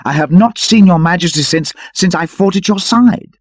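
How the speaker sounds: a touch of Sir Richard greeting his king; lightly voiced old knight. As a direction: speak with reverent joy.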